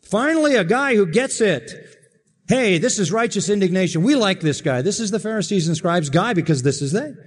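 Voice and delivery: high, delighted voice of the smug scribes; mock-smug religious crowd, pitched high; gloating Pharisees. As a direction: cheer him on like approving legalists. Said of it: "they would be saying".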